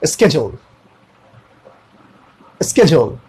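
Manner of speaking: "स्केड्यूल" said as sked-yool, starting with sk; "स्केड्यूल" with a hard sk, not sh; "schedule" with sk. Shown as a demonstration. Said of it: "जैसे कि ये".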